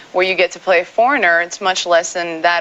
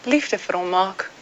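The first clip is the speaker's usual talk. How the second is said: Afrikaans, lightly playful; speaking Afrikaans. Shown as a demonstration. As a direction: say it in Afrikaans on request. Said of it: "speak Afrikaans".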